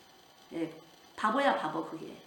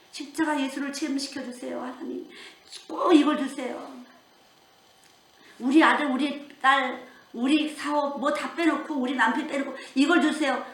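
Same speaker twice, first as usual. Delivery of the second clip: pleading prayer; 4 semitones higher, 3 dB louder than usual. Shown as a demonstration. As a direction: beg God for this above all else. Preacher voices an earnest prayer.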